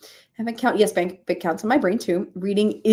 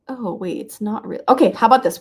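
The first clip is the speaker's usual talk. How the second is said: usual speaking voice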